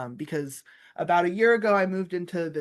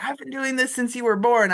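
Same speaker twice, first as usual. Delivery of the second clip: louder, higher mock brag; joking boast; 8 semitones higher, 6 dB louder than usual. Teacher joking to students about experience, mock boast. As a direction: toss it out as a teasing joke. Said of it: "So I like to joke".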